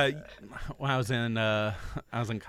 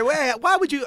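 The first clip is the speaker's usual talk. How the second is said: mock surprise; 9 dB louder than usual. Retelling own surprised reaction.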